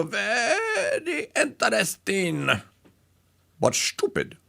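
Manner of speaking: hammed-up Laugh-In German soldier accent; mock German accent. Host quoting the Laugh-In comedian in a slow German accent. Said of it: "in a German accent".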